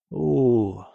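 groan. Acted. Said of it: "простонал друг".

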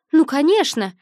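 irritated dismissal. Acted. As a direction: wave it away with annoyance. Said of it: "отмахнулась незнакомка с раздражением".

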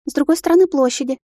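excited sister. Acted. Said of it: "глуховатый и взбудораженный голос сестры".

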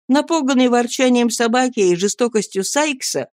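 ordinary delivery

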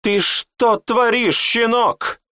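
high, loud, slow furious yell. Acted. Raging mage yells at his apprentice. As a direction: scream it down at him with contempt.

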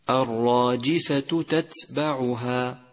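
slow recitation, two distinct ت in تتبعها; إظهار التاءين. Shown as a demonstration. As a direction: draw out الراجفة تتبعها, each ت clear. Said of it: "بل يجب التوضيح". (ترتيل تتبعها ببطء مع توضيح التاءين)

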